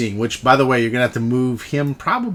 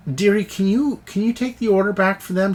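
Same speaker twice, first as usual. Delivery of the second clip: demon bartender; 6 semitones higher than usual. Acted. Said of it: "She goes".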